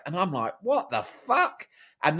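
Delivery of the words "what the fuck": laughing disbelief. Retold or imitated. Boy hears seizure news.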